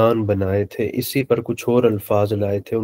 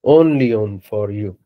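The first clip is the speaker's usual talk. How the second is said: slow translation; 3 dB louder, much slower than usual. Shown as a demonstration. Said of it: "یہ ترجمہ ہے اس کا".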